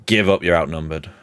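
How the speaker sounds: low, understated demand to surrender; lightly voiced Varian. Varian to outnumbered caster, lightly acted low warning. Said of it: "you hear Varian say".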